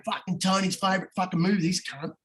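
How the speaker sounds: mock Aussie punter; good Aussie voice. Reading Ando's sweary tips to the boys, Aussie voice. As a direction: put on an Aussie accent for the tips. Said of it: "do it in a good Aussie voice".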